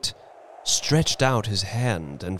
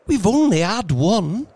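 frantic; 12 semitones higher, 6 dB louder than usual. Acted. Wife frantic about wishes.

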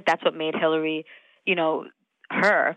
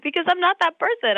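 laughing; 12 semitones higher, 3 dB louder than usual. Real, not acted. Laughing while retelling reply.

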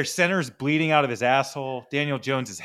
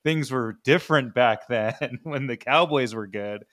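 slow, hushed spooky storyteller; old spooky voice; 2 semitones lower, slower than usual. Pretend. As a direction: tell it like an old ghost story. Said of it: "use an old spooky voice".

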